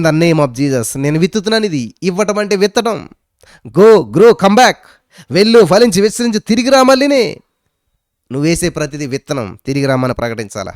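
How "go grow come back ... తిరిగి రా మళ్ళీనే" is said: loud declaration. Shown as a demonstration. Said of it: "declaring over an offering".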